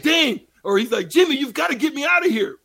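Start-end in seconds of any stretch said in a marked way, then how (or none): 0.0-0.4 high, loud call in a mock French accent; put-on French accent, pitched high. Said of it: "with this French accent". 1.1-2.6 acted plea. Acted plea from the hostage skit.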